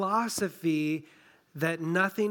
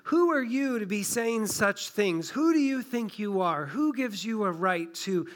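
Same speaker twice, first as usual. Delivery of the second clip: higher, scornful "who do you think you are"; indignant religious leaders; 4 semitones higher than usual. Acted. Religious leaders scolding Jesus, indignant and scornful. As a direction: put the upstart in his place. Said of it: "It's kind of like saying".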